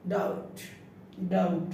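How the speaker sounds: ডাউট said as "dout", no b before the t; silent b. Shown as a demonstration. Teacher showing b is not pronounced, ডাউট with silent b. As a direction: model ডাউট twice, leaving out the b. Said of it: "বি এর টি উচ্চারিত হয় নাই".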